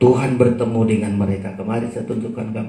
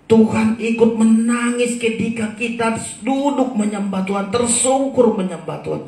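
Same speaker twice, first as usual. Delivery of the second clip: impassioned preaching; 9 semitones higher than usual. Real, not acted. Preacher telling worshippers that Tuhan weeps with them, impassioned preaching. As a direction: preach it fervently to the congregation.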